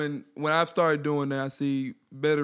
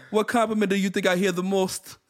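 mock Jamaican accent; 4 semitones higher than usual. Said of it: "in a different accent".

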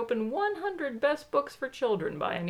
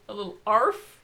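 overdone arf; 5 dB louder than usual. Acted. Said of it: "You overdid it".

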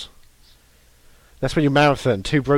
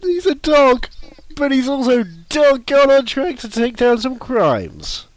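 high, slow hammy trailer voice; 11 semitones higher, 4 dB louder, slower than usual. Pretend. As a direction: pitch it like a cheesy promo. Pitching dog detective show.

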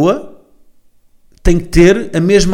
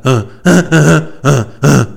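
mock wheezing gasps; asthmatic panting; 5 dB louder, slower than usual. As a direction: pant it out like an asthmatic. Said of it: "ele é asmático". (arfar de asmático, a fingir)

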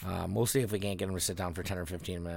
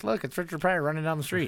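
high and louder, a hammed-up announcer; mock announcer; 10 semitones higher, 5 dB louder than usual. Comic retelling Pryor's joke, mock announcer voice. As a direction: call it out like a play-by-play gag. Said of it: "and he goes".

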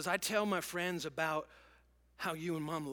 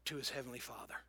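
whisper; 4 semitones lower, 7 dB quieter, faster than usual. Real, not acted. Sermon, drops to a whisper.

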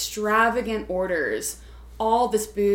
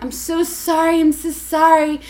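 mock tearful apology, pitched up; exaggerated, higher whiny pleading; screaming and crying; 6 semitones higher, 5 dB louder than usual. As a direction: imitate an over-the-top sobbing apology. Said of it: "she was screaming and crying".

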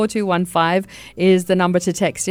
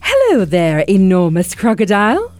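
louder, sing-song cheerful bird voice; 5 dB louder than usual. Acted. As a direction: greet him like a chirpy little bird. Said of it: "sang the roly-poly bird".

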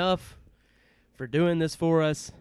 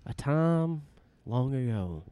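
epic trailer voice; 4 semitones lower, 7 dB quieter than usual. Acted. Spoofing the Star Wars opening.

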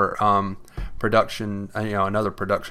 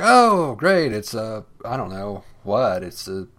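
mocking quote. Mocking the show's monsters.

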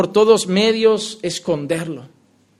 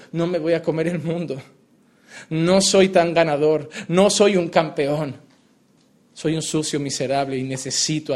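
humbled confession; 3 semitones lower than usual. Retold or imitated. Humbled believer confessing need.

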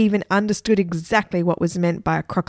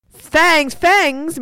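higher, louder cry of fangs; alarmed exclaim; 9 semitones higher, 5 dB louder than usual. A narrator's reading. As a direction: blurt it out in shock. Two kids exclaim in alarm.

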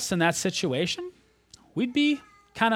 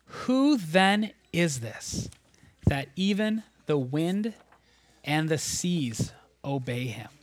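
slow, fading into a whisper of awe; awed whisper; 4 dB quieter, slower than usual. Acted. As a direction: let amazement steal your breath. Disciples awed after storm.

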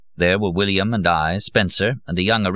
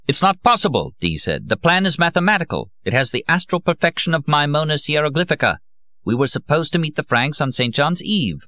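a raging scholar who can't believe it; pitched-up protest of a wronged genius; exasperated outburst; 8 semitones higher than usual. A narrator's reading. Dee furious after failed mission.

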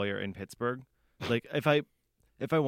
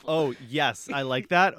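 put-on Southern belle twang, a bit loud; playful, exaggerated Southern accent; 3 semitones higher, 7 dB louder, slower than usual. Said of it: "a little too much twang in that".

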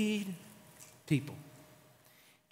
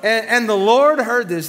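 louder, slower, Lord hammered home; loud, slow preacher emphasis; dramatic loud repeat; 5 semitones higher, 9 dB louder than usual. Shown as a demonstration. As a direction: boom "the Lord heard this" with warning. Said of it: "somebody say, "Uh-oh".

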